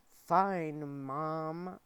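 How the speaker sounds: put-on loud, childish retort; shouted. A narrator's reading. Wolf pup sassing Michael, a loud childish shout. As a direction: throw it back at him like a sulky kid. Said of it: "I shouted".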